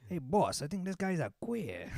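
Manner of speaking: put-on a light Italian-American wise guy accent. Henchman to boss, light Italian-American accent. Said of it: "I prefer doing that one".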